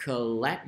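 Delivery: collect with the second syllable stressed. Shown as a demonstration. Teacher reminding students how to say collect, second syllable stressed. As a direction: punch the LECT in collect. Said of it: "nhấn vô âm tiết thứ hai".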